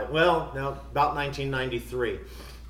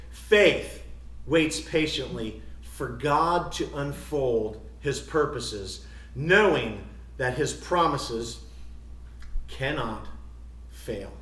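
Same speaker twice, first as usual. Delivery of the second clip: solemn quotation reading; slower than usual. Real, not acted. Preacher quoting a writer on patient faith, slow and solemn.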